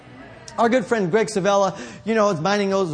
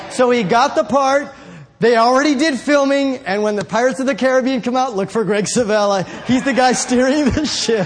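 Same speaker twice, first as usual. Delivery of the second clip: louder and higher, proclaiming; triumphant shout; 3 semitones higher, 4 dB louder than usual. Real, not acted. Preacher shouting the happy ending to the congregation. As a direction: ring out the victory to the church.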